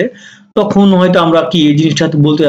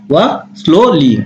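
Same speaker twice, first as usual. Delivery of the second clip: walk slowly, stretched out very slow for learners; slow English drill; much slower than usual. Shown as a demonstration. Teacher drilling the English phrase very slowly for students. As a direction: draw out each word of walk slowly. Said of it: "তাই বল না".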